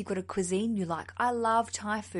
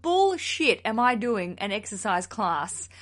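imagined refusal. Acted. Listener refusing an exercise class for her party, mock indignation. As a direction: balk at it, word by word. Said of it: "And you're like".

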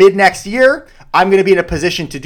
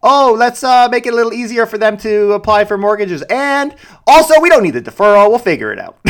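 higher, mocking pompous official tone; mock CMHC voice; 5 semitones higher than usual. Host parodying CMHC to viewers, mocking pompous voice. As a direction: lampoon a smug agency spokesman. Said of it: "they're out here saying".

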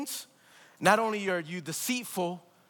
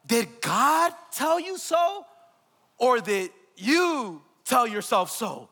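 pointed challenge; slower than usual. Acted.

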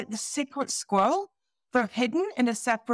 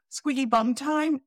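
mock alarm; 6 semitones higher than usual. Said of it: "I literally wanna go".

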